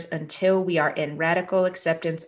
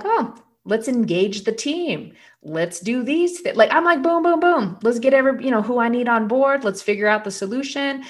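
higher, energized can-do voice; rallying the team; 5 semitones higher, 4 dB louder than usual. Acted. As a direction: fire it off like you're gathering a crew. Acting out her can-do response.

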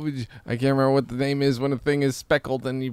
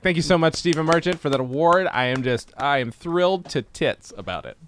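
gushing acceptance; 5 semitones higher, 4 dB louder than usual. Pretend. Mock award acceptance speech.

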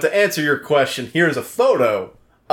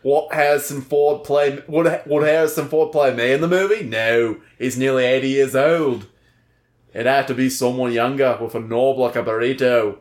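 put-on British accent, overdone Cockney; hammed-up, uneven Cockney accent; Murdoch. Jailed musician protesting his innocence to an interviewer, hammed-up Cockney accent. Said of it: "your British accent is like two people".

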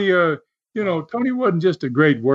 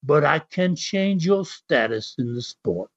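put-on amateur English accent, starting higher; 4 semitones higher than usual. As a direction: imitate an English wrestler's challenge, accent lightly done. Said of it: "while you were doing that accent".

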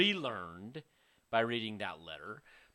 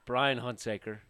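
sultry perfume ad. Acted. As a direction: purr the name like a perfume ad. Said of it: "That was his sultry voice".

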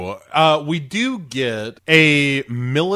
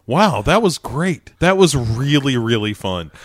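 deadpan, not sarcastic; 3 semitones lower than usual. Retold or imitated. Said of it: "the parenthetical was sarcastically, but the delivery doesn't capture that".

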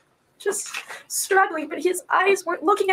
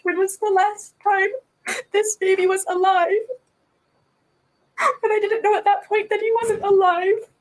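crying as she remembers; mother recalling her son's last breath, crying; tearful; 4 semitones higher than usual. Real, not acted. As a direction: voice thick with real tears.

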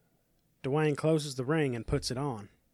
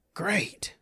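whispered cheer; 6 semitones higher than usual. Acted. Dwayne pleased, whispered.

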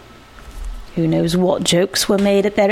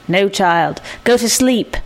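curt. Acted. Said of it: "The voice was curt".

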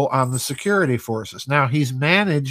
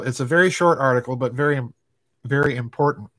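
speech broken by hiccups; hiccuping between words; much faster than usual. Real, not acted. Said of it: "I've got the hiccups".

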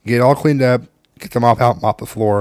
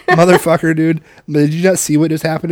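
louder, higher exasperated outburst at the son; mock outrage at the gaming teen; dad snapping at son who ignores the mess; exasperated yell; 6 semitones higher, 4 dB louder than usual. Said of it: "I'm like".

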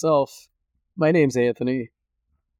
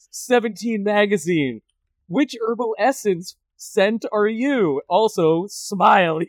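Roy Scheider impression; 5 semitones higher than usual. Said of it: "the Roy Scheider interview".

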